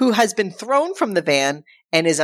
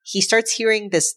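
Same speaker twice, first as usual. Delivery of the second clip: ordinary talk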